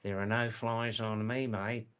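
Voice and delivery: broad Australian turn of phrase; casual pure-Australian accent. Shown as a demonstration. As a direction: say it in pure Aussie, rising on "mate". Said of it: "I'm talking in pure Australian".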